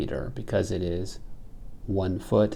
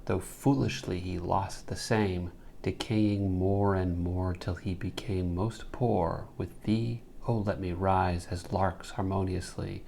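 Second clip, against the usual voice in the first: measured, even poetry reading; poem recitation; 5 dB quieter than usual. Real, not acted. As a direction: read the verse aloud with steady reverence for the metre.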